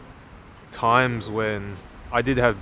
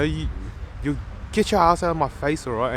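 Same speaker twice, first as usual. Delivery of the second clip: a higher, lightly put-on Aussie bully; mock angry Aussie; 3 semitones higher than usual. Gym-goer retelling the Aussie bench presser's rude demand, lightly mocked. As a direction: imitate the aggressive Aussie lifter. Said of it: "he was yelling at some".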